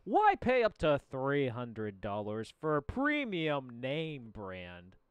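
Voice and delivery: slow, drawn-out TV pitch; over eager infomercial. Pretend. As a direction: sell it like a late night ad. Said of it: "you got the infomercial voice".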